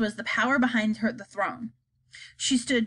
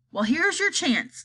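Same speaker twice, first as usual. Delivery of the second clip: slow snarl; 5 semitones higher than usual. Acted. Miss Tibbs snarls at the chief spy. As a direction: snarl the words at him. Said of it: "snarled Miss Tibbs".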